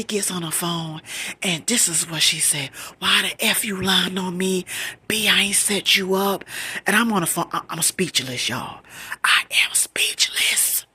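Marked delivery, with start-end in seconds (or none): 3.0-6.4 acted indignant cousin, raised voice; angry retort. Cousin denying the setup on three-way, angrily acted. 9.2-10.9 slow, drawn-out dramatic disbelief; stunned emphasis. Retold or imitated. Telling viewers how the three-way call hit her, stunned.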